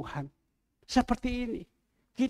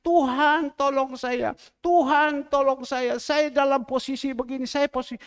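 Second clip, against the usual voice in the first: pleading prayer; 5 semitones higher, 3 dB louder than usual. Retold or imitated. Voicing a prayer for help.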